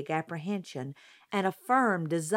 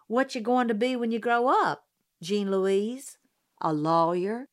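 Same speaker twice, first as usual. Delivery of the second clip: louder, higher gossip calling out; calling across the room; 3 semitones higher, 4 dB louder than usual. Acted. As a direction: call over the room to the child. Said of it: "called from across the room".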